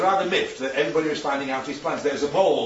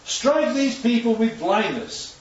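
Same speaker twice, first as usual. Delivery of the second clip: solemn prayer; 5 semitones higher, slower than usual. Acted. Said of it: "Elisha prayed to the Lord".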